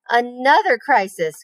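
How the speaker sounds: slow weary groan. Acted. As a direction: sigh it out, fed up. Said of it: "groaned Fern".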